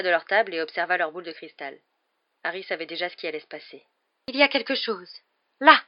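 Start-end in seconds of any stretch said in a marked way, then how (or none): 4.3-5.8 Trelawney's mystic voice. A narrator's reading. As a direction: intone it like a dreamy seer. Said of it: "murmura le professeur Trelawney".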